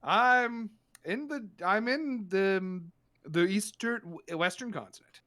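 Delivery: a befuddled doctor slowly finding an answer; dazed doctor. Acted. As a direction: lose the thread halfway through.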